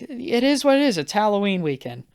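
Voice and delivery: lightly voiced hostess, starting high and easing down; retold breezy hostess. Hostess to high guest at her party, lightly mimicked breezy reassurance. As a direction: brush it off in a lightly imitated voice.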